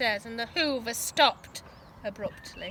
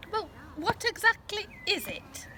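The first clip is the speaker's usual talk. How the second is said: mild nervousness; 8 semitones higher than usual. A narrator's reading. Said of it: "asked Missus Large nervously".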